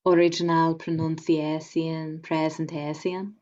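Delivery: pronunciation and presentation with the shun ending drawn out as see-un; original pronunciation. Shown as a demonstration. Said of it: "saying that this was an original pronunciation presentation".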